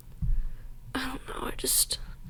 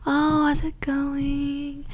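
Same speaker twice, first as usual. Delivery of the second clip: slow, higher, sly imitation of a gossiping friend; lightly hammed-up catty friend; mock friend voice; 4 semitones higher, slower than usual. Mocking the friend's sly talk.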